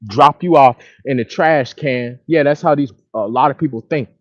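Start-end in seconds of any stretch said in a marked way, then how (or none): 0.1-2.2 mocking gold-digger voice. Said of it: "that's how all these women act".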